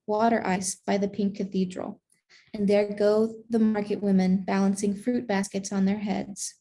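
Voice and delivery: measured picture-book reading, savoring each phrase; story narration. A narrator's reading. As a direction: read it to children in unhurried phrases. Reads a picture book aloud.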